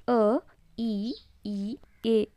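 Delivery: "ಅ, ಇ, ಈ, ಎ" as separate vowels: uh, short i, long ee, e; "ಅ, ಇ, ಈ, ಎ", each vowel set apart; letter-sound demo. Shown as a demonstration. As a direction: sound out "ಅ, ಇ, ಈ, ಎ" one by one. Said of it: "ಈ ಐದು ಅಕ್ಷರದಿಂದ ಇವೇನಂದರೆ pronounce ಆಗ್ತವೆ".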